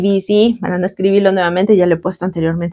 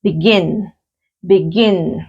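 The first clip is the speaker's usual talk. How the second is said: short be, longer falling GIN in begin; stress on last syllable; 3 semitones lower, much slower than usual. Shown as a demonstration. Teacher confirming the last syllable is stressed, begin stressed on GIN. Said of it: "también en la última sílaba".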